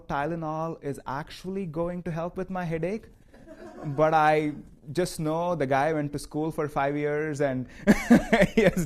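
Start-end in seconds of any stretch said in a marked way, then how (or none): 3.8-8.8 chuckling through it; laughing. Real, not acted. Teacher joking about trusting the doctor, chuckling. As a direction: let the joke make you laugh.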